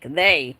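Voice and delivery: "they" said alone with weight; pointed emphasis on "they"; stress on they. Retold or imitated. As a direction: land firmly on the word "they". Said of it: "he wasn't talking about, like, that person".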